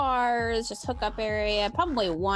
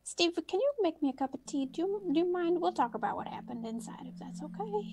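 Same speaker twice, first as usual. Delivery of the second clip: put-on shaken old lady; 4 semitones higher than usual. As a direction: stammer it out, rattled and weak. Old woman shaken after crash.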